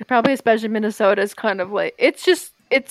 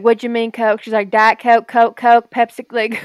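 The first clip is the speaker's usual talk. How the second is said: louder rattled-off list of Cokes; waitress listing; 5 dB louder than usual. Retold or imitated. Nashville waitress listing every Coke, louder. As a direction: fire off the menu of Cokes.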